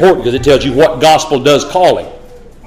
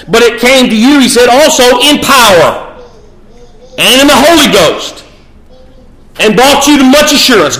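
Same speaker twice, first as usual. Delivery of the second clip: raised pitch, weighty scripture delivery; impassioned pulpit reading, pitched up; fervent preaching; 6 semitones higher than usual. Acted. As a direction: preach the verse with mounting conviction. Preaches the verse with fervour.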